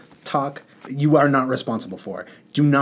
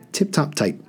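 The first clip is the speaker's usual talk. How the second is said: mild relieved exclamation, a touch higher; genie's light cry of relief; understated happy relief; 5 semitones higher than usual. A narrator's reading. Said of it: "cried If, in great relief".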